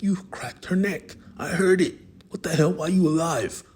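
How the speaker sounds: stunned loud outburst; shocked shouting. Acted. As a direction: yell in disbelief. Shocked she survived.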